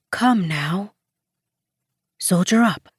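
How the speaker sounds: soft order. A narrator's reading. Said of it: "the older woman softly ordered".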